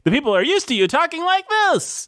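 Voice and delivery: high, squeaky mock impression; high-pitched teasing imitation; imitating Jake. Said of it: "what are you talking like that for".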